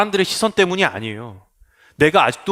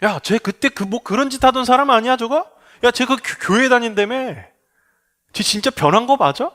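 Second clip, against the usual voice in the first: sneering gossip; 6 semitones higher than usual. Acted. Gossips doubt the convert.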